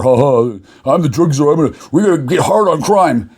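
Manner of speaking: mocking drug czar. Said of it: "you call it a drug war".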